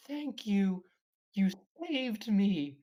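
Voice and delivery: high, loud squeak, drawn out; squeaky voice. Retold or imitated. Friend retells talking Pikachu thanking Ash, squeaky. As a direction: squeak it sweetly like a cartoon pet. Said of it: "like, a squeaky voice".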